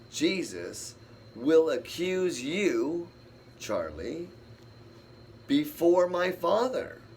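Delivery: slow, solemn reading of Jesus' words; a hint of a solemn Jesus voice. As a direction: read it slowly and gravely, as scripture. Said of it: "Jesus says this".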